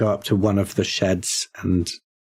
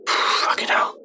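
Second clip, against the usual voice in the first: sighed, whispered swear; slow curse under the breath; slower than usual. Acted. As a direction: let it out on a heavy breath. Player reacts to eerie scene.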